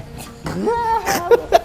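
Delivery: high-pitched burst of laughter. Real, not acted. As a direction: laugh out at the mess. Laughing at failed pour.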